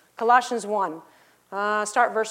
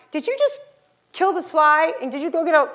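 surprised; 4 semitones higher, 3 dB louder than usual. Retold or imitated. Wife finds fly dead.

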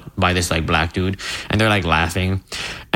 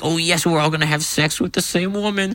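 higher-pitched mock eagerness; mock eager; 7 semitones higher than usual. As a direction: play an overeager dude, hammed up. Mimicking eager dudes in prank.

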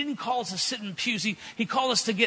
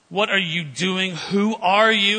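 mock amazed, slow then louder on "Who are you?"; retold astonishment; 5 dB louder, slower than usual. Waiter asks the preacher in retold amazement. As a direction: replay the waiter's astonished question.

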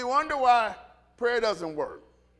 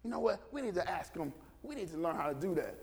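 soft, low conspiratorial aside; hushed, furtive plotting; disciples hiding in bushes; 5 semitones lower, 9 dB quieter, faster than usual. Acted. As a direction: confer quietly so he won't hear. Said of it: "they're in the bushes going".

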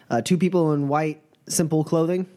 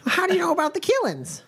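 much higher, alarmed question; pitched-up startled zealot; puritan voice. Acted. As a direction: demand how they know. GM plays puritan.

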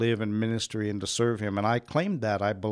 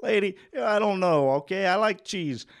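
defiant retort; 7 semitones higher than usual. Retold or imitated. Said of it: "I'm just looking at 'em like".

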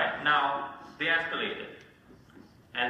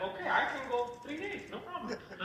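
mock confident; 11 semitones higher, 7 dB quieter than usual. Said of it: "you're like".

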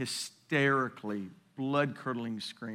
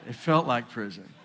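laughing; 6 dB louder than usual. Real, not acted.

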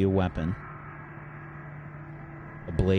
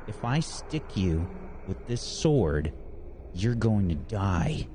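slow menacing threat; 2 semitones higher, slower than usual. Acted. Villain threatens with sword.

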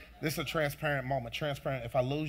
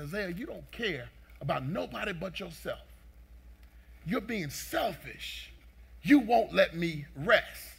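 retold scolding father; 2 semitones higher, 4 dB louder than usual. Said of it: "the inner part of me will come out".

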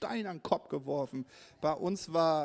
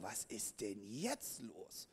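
bewildered; 5 semitones lower, 11 dB quieter, slower than usual. Retold or imitated. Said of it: "Ich so".

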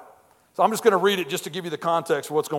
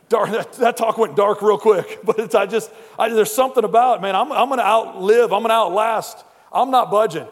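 rousing preacher; 4 semitones higher, 6 dB louder than usual. Real, not acted. Preacher rallies after the joke.

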